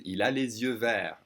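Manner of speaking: les yeux linked as "lay-zyeu"; liaison. Shown as a demonstration. Teacher connecting the S for learners, liaison. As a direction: join les to yeux with a Z sound. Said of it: "I'm connecting the S".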